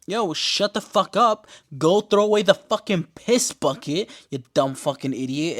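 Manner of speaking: high and loud, a hammed-up telling-off; mock angry snap. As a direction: bark it at her like a fed-up bully. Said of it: "Misty's like".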